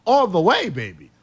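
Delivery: host riffing in a put-on English accent. Host keeps up his English accent on air. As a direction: slip into an English accent for the analysis. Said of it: "the English accent might be the only thing".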